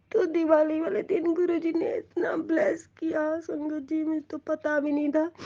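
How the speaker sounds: real tears breaking through the story; तो दिवाली वाले दिन बोलते हुए रोना; crying. Real, not acted. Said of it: "अब भी".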